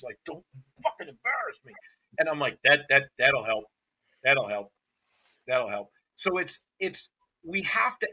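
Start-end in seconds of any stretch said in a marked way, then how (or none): 0.3-1.7 mock angry trainer. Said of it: "I see that a lot with trainers". 2.6-5.9 deadpan sarcasm. Retold or imitated. Sarcastic reaction to angry handlers.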